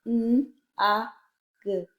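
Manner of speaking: N, a, g as three separate letter sounds; blending sounds. Shown as a demonstration. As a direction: sound out "N, a, g" one by one. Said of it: "Let's blend the sound".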